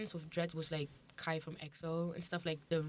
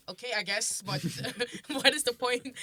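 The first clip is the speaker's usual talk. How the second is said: dry, unimpressed reply; half-laughing disbelief; incredulous; 6 semitones higher, 6 dB louder than usual. Retold or imitated. Quoting her reply to promoter.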